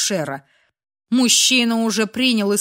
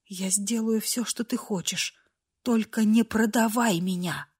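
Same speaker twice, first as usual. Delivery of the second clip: much softer, almost breathless begging; desperate hushed plea; 6 dB quieter than usual. A narrator's reading. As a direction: beg in a hush so no one hears. Esha begging, terrified. (отчаянная тихая мольба)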